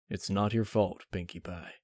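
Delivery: soft, fading reassurance; consoling. Acted. Big Mac reassuring Pinkie, soft and fading. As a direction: gently comfort her.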